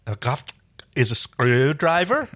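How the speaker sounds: slow, doubtful rising question. A narrator's reading. Erin questions that it's the same word, doubtfully. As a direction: query it hesitantly, stretched out. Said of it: "Erin said doubtfully".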